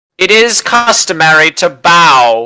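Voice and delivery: big resounding booming voice, "bow" drawn out. As visitors walk into the room, the figure inside addresses them in a booming voice. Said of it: "this booming voice say".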